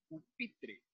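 "pupitre" repeated with weight on PI; stressed syllable. Shown as a demonstration. Teacher repeating an example word, "pupitre" stressed on PI. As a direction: make the middle of "pupitre" stand out: pu-PI-tre. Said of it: "esta sílaba suena más fuerte".

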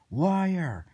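high, loud mock accusation; angry accusation. Guard accusing someone of screaming, angry. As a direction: throw it out loud and indignant.

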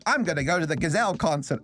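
put-on amateur Australian otter girl; imitated Australian accent. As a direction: try on a light Australian accent. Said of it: "girl with an Australian accent".

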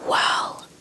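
usual speaking voice

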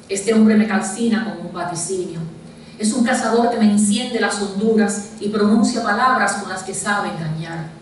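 measured poem reading, pausing after each verse; deliberate literary delivery with falling line endings; poetry recitation. Acted. Recites own poem aloud.

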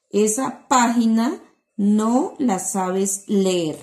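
slow, clear reading of the sentence; reading aloud to children. Shown as a demonstration. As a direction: read slowly to the class. Reads sentence from reader.

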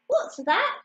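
high hoot of mocking surprise. A narrator's reading. Horse hears the odd song, hooting. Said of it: "hooted the horse".

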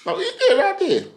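imitating a Southampton girl's accent, pitched high; mock Southampton accent. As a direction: put on her Southampton accent, teasing. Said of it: "I didn't know their accents were like this in Southampton".

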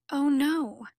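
high, loud gasp of shock; shocked cry. Acted. Susanna hearing Charlie's father died, shocked cry. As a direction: blurt it out in sudden dismay. Girlfriend hears of father's death.

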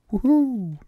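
high happy whoop of glee; excited whoop. Real, not acted. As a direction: let out a joyful cheer while zooming. Flying fast on legendary.

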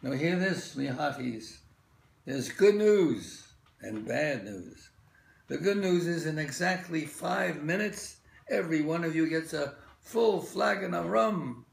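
gruff galley master address; barked rowing orders. Acted. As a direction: bark it at the rowers.

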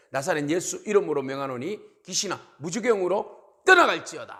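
firm declaration building to a loud command; demonstrated prayer command, building in force; exorcism proclamation. Shown as a demonstration. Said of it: "이렇게 외쳐야 되는 겁니다".

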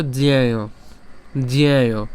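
জ্যায় said as dzyay, clearly repeated; drilled pronunciation. Shown as a demonstration. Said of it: "উচ্চারণটা কেমন হবে". (জ্যায় শব্দটি স্পষ্ট করে উচ্চারণ)

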